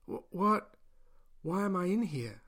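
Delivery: stammering startled question; waking captive, alarmed; confused shock. Acted. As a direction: blurt it out bewildered. Narrator wakes confused in cage.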